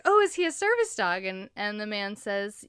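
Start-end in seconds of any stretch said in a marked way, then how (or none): 0.0-1.2 high sing-song mock question; gushing stranger. Mimicking the woman on the plane, high and gushing. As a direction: parrot her gushing question again. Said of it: "She's like".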